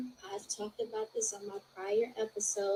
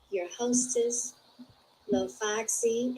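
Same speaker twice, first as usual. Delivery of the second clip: slow showy intro; 2 semitones higher, slower than usual. Acted. Host intro name drawn out.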